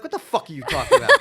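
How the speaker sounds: high, loud New York indignation; Queens accent. Retold or imitated. New Yorker answering people who ask, loud Queens accent. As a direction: fire back in an exaggerated Queens accent. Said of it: "That's my Queens coming out".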